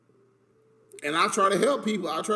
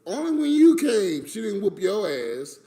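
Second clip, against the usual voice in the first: heated retort; 5 dB louder than usual. Real, not acted. Nephew loudly cutting off his uncle's claim. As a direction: snap it back at him hard. Arguing with uncle about Grandma.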